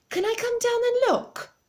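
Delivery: high, loud call down; shouted back. Acted. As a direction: call it down eagerly. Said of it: "Mister Hoppy shouted back".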